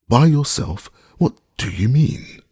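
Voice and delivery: high, loud startled question; alarmed cry. A narrator's reading. Master startled by servant's plan, high loud cry. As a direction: snap it up in alarm.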